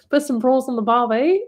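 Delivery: hammed-up Aussie accent, breaking into laughter; bad Australian accent. Streamer embarrassing herself for viewers, giggly bad Australian accent. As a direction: giggle through a deliberately corny Australian accent. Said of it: "I love an Australian accent".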